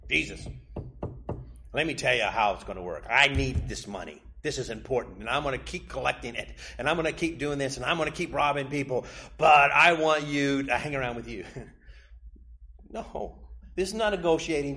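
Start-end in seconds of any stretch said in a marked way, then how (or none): 0.1-11.4 a hint of a pushy dealmaker laying out terms; bargaining tax collector. Tax collector telling Jesus how it will work, lightly voiced haggling. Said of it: "tax collectors saying".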